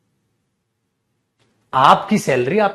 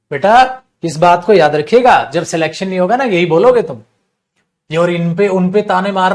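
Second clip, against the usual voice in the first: stern scolding; 3 semitones higher, 6 dB louder than usual. Real, not acted. Teacher scolding class.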